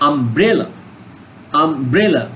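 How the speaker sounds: আমব্রেলা with BRE pushed harder; stress on BRE. Shown as a demonstration. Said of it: "কিসের উপর জোর দিচ্ছে".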